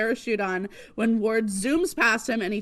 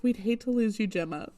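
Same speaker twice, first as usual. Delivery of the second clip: imitated sweetness; 3 dB quieter than usual. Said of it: "he gets really sweet again".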